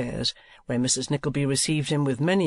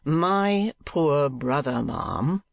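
tart; much slower than usual. Acted. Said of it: "interposed Ralph tartly".

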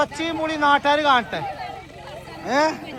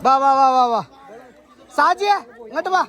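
louder call of come, come over and over; calling out loudly; 3 dB louder than usual. Real, not acted. Calling the children over for the family photo, loud.

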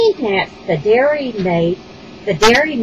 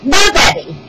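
loud, high mock whimper; hammed-up whimper; 5 semitones higher, 6 dB louder than usual. A narrator's reading. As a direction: whimper like a sulky king. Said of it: "he whimpered".

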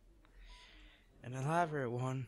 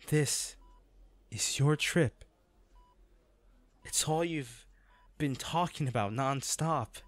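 louder, pressing each point home; emphatic insistence; 2 semitones higher, 4 dB louder than usual. Acted. To his partner refusing to let her trip be ruined, emphatic and louder. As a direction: push back hard on giving up her trip.

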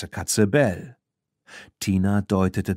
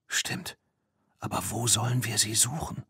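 hushed; 6 dB quieter than usual. Acted. Hiding, whispering in shed.

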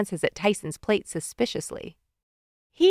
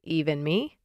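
lower, softer sleepy question; yawning; 4 semitones lower, 6 dB quieter than usual. A narrator's reading. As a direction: say it through a yawn. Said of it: "Dad says with a yawn".

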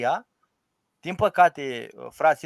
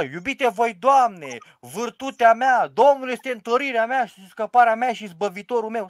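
mock howling priest; 3 semitones higher than usual. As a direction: ham up a priest bellowing 'vârtutea mea'. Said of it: "urlă".

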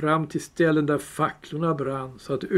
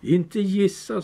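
Gollum voice; 5 semitones higher, slower than usual. Acted. Gollum replies.

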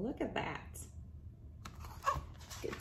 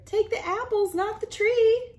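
higher calling out; high urgent call; 13 semitones higher, 5 dB louder than usual. Acted. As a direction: call after him. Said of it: "yelled Cinnamon Cobbler".

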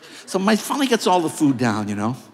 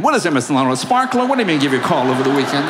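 mocking disbelief; 3 semitones lower, 4 dB louder, faster than usual. Mocking reply from colleague.

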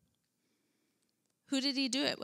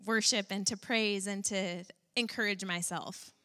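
breezy mock cheer; 2 semitones lower than usual. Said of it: "it's not like David was on the high of highs".

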